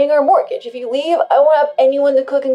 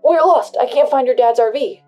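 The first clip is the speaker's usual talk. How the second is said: panicked; 3 semitones higher, 10 dB louder than usual. Acted. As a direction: blurt it out in a panic. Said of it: "called in a panic".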